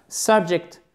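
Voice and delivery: Subject with a strong SUB; stress on first syllable. Shown as a demonstration. Teacher repeating it for learners, "Subject" stressed on its first syllable. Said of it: "Accent tonique sur la première syllabe".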